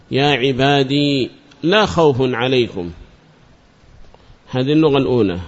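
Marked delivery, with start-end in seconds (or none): 0.1-1.3 يا عبادي ending on long ī; still final ya. Shown as a demonstration. Teacher illustrating the first dialect, يا عبادي ending in long ī. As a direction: hold the ī of يا عبادي with no vowel after it. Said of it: "إثبات الياء التي أضيف إليها ساكنة".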